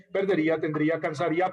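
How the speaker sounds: "Perdería", "tendría", "cansaría" with force on the í; stress on the final -ía. Shown as a demonstration. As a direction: lean on the í of each verb, "Perdería", "tendría", "cansaría". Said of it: "sino a oído".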